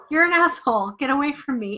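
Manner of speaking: put-on laughing while talking. Acting out a reply to someone calling the work stupid: acting out laughing while talking. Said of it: "And I'd be laughing".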